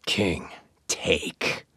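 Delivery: breathy whispered instruction, voiced like the teacher; quoting the voice teacher's whispered cue in class; teacher's hushed cue. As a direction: hush him with a soft teacher's cue.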